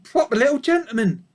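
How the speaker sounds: high approving sheep; admiring sheep. A narrator's reading. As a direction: praise him like a fond ewe. Sheep murmur.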